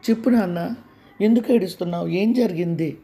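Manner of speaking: put-on urgent fatherly plea to a crying child; anxious pleading father. Father shakes son, demanding answer. (ఆందోళనతో బతిమాలే తండ్రి)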